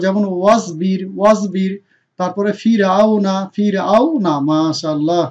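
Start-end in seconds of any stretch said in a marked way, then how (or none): 0.4-1.7 light, thin final r in ওয়াজবির. Shown as a demonstration. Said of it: "চিকন করে". 2.6-4.3 light r in ফির of ফিরআউনা; thin R. Shown as a demonstration. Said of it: "চিকন করে".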